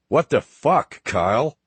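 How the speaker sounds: yelling in frustration; shouting. Acted. Woman in labour yells at driver.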